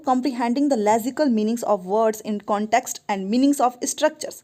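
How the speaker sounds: reading the question out very slowly, word by word. Acted. Teacher reading an exam question to students, slow and deliberate. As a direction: dictate it slowly to the class. Teacher reads answer option aloud.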